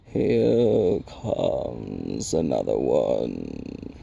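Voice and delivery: very low, very slow rock creature; crackling Rock Chewer. A narrator's reading. Stone giant announcing a newcomer, deep slow crackle. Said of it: "he crackled".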